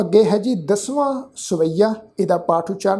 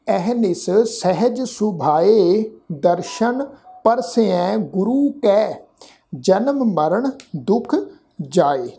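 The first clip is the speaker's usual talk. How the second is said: slow, drawn-out verse recitation; scripture recitation; much slower than usual. Shown as a demonstration. Teacher repeats the verse for the congregation, slow measured recitation. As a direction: recite it measured, stretching the long vowels. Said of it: "ਫਿਰ ਤੋਂ ਪਾਠ repeat ਉਚਾਰਨ".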